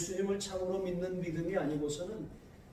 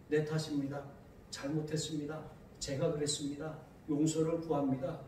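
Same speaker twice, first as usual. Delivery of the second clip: softer, lower humble apology; sincere confession; 4 semitones lower, 6 dB quieter than usual. Shown as a demonstration. Honest person confessing fault, sincere and soft. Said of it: "이렇게 정직해야 하는데".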